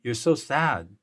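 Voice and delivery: gentle empathic reflection. Shown as a demonstration. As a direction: talk them gently through their grief, pausing between feelings. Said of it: "And I say something like this".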